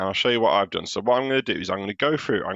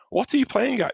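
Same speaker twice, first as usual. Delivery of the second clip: bossy yell; 3 dB louder than usual. Acted. Teacher voicing Little Miss Bossy yelling across the road, high and bossy.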